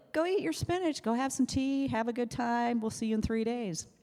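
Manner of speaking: breezy nurse brushing her off, in a light imitation; cheerful clinic-staff impression; mocking the techs. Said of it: "They're like".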